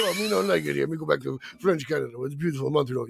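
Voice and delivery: mock French Canadian. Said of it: "And Reno's like".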